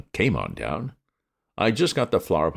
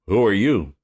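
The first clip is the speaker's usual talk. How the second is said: gruff policeman; 5 semitones higher, 6 dB louder than usual. A narrator's reading. Policeman demands.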